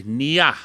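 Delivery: Nia said clearly for repeating; Cree word demo. Shown as a demonstration. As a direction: model the word Nia slowly for the class. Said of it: "I want you to repeat after me".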